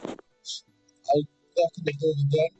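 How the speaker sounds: whisper. Real, not acted. Whispered, unvoiced.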